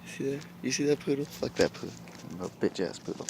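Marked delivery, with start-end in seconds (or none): none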